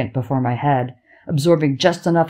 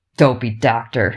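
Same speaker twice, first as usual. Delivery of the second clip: scoffing snort, lower pitch; 3 semitones lower than usual. The narrator's father brushes off the doctor's ruling on his son; snorting. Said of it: "my father snorts".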